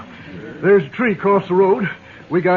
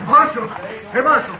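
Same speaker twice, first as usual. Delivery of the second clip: raised call from a distance; 5 semitones higher, slower than usual. Acted. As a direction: call out to get the marshal's attention. Driver calls marshal from stage.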